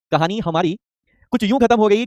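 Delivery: the line again, rising on खत्म at the end; repeated shayari line. Shown as a demonstration. Teacher repeating his shayari line to the class, rising on खत्म. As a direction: repeat the line and lift खत्म, building suspense. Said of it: "एक शायरी हो जाए".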